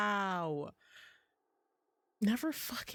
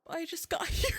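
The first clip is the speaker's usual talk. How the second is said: high, loud laugh-through protest; incredulous laughing shout; laughing outburst; 10 semitones higher, 4 dB louder than usual. Real, not acted. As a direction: blurt it out laughing in disbelief. Blamed for the kid crying.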